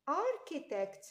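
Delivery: "اركيتكت" with a hard k for ch; k sound. Shown as a demonstration. Teacher modelling the k sound, "اركيتكت" with clear k. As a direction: say "اركيتكت" carefully, sounding each k. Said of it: "ك ساوند".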